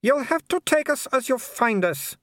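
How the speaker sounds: high, polite baroness voice with a thin smile; a smiling aristocrat who means none of it; cool hostess smile. A narrator's reading. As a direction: welcome him coolly through a fixed smile. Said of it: "smiling with her mouth alone".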